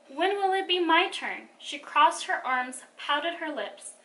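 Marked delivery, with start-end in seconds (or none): 0.1-1.5 high-pitched sulky question; pouting. A narrator's reading. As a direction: complain with a pout. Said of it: "Jenny pouted".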